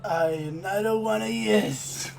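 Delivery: slowed-down sassy shopkeeper voice; mock witch cat girl voice. GM voices the tabaxi, a drawled, slow taunt. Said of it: "Sound like that?".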